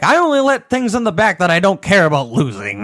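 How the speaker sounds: lightly voiced menacing Trevor; deadpan a crazy threat. Retelling Trevor talking to the meth head, light menacing voice. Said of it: "And he's like".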